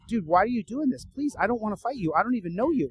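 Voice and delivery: retold plea to be left alone; mildly imploring; begging. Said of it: "I'm begging him".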